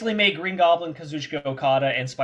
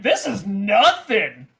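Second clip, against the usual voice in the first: laughing scoff; 5 semitones higher, 5 dB louder, much slower than usual. Retold or imitated. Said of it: "I was like".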